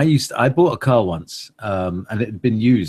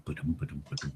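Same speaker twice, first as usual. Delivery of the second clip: heartbeat imitation; 7 semitones lower, 17 dB quieter, much faster than usual. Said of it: "heartbeat of somebody going boom".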